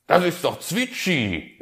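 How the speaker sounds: the fox insists, voice jumping up; high fox voice. Acted. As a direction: fox explains the figure to the raven, high. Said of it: "erklärte Herr Fuchs".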